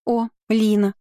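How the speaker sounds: high, surprised breathy exclamation; surprised gasp. A narrator's reading. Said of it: "удивлённо выдохнула Алёнка".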